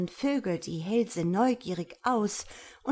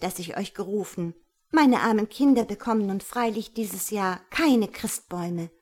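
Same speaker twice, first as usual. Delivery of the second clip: indignant; 4 dB louder than usual. Acted. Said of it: "rief Christkind entrüstet".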